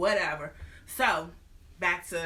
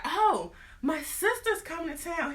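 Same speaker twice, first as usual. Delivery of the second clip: higher mock announcing voice; lightly voiced wife; 9 semitones higher than usual. Wife telling her husband her sister is coming, lightly voiced. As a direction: play the wife, mock casual. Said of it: "she was like".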